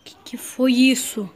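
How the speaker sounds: slow frightened whisper; scared whisper. Real, not acted. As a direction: breathe it out, afraid to be heard. Alone, hears noise in dark.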